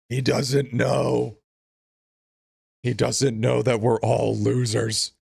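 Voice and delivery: drawn out, slow and ominous; slow, heavy announcement to chat; slow dramatic reveal. Acted. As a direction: spell it out slowly like a grave secret.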